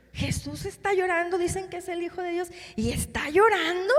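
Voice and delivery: acted-out puzzled astonishment; incredulous onlookers. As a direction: voice the bystanders who can't believe it. Voicing onlookers shocked at tears.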